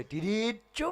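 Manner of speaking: high drawn-out sound effect; imitated road noise. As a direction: sing out the noise, rising high.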